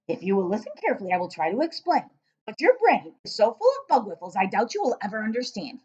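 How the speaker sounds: a hint of the giant, incredulous; lightly voiced giant. Giant astonished at the girl, lightly voiced. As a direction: let the giant sound amazed.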